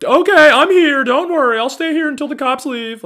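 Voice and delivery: put-on very high, breathy-sweet white girl voice; mock a well-meaning white girl reassuring everyone; high mocking valley-girl voice. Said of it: "some white girl to step out of her car and be like".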